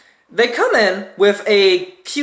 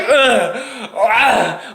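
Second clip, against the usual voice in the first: grunts; 3 semitones higher than usual. Retold or imitated. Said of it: "I was having some grunts".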